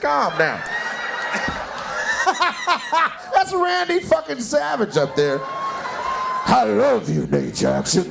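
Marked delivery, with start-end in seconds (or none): 5.4-8.0 slow, very high stretched out call; mocking her high call. Comic mimicking a woman's shout from the crowd.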